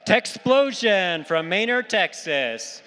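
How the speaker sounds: loud announcing. Real, not acted. Announcer introduces the team.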